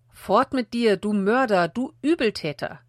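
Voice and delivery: cursing shout. Acted. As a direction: hurl the curse at the passing king. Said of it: "schrie er fluchend".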